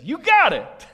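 high, loud delighted cheer; excited exclamation. Retold or imitated. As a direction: burst out like a thrilled teacher. Jesus affirms Peter excitedly.

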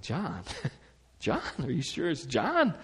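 incredulous relatives. Retold or imitated. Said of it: "And they're like".

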